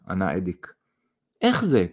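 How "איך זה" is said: high-pitched startled question; exclaiming. A narrator's reading. Mother questions her son's story, exclaiming. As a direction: cry out in disbelief. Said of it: "קרא זינה".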